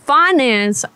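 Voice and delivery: a lightly voiced, brash, mouthy woman chewing out a caller; sassy furious prank-call woman. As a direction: play an angry, foul-mouthed single mom demanding her money. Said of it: "I just went full blown whatever that was".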